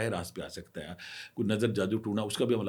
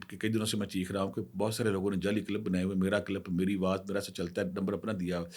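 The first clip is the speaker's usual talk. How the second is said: usual speaking voice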